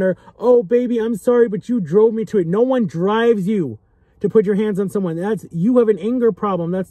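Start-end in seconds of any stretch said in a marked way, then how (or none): 0.4-2.5 higher, wheedling fake apology; a hint of a manipulative sweet-talker; mock abuser apology. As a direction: imitate an abuser sweet-talking his partner, pitched up. Abuser sweet-talking the victim.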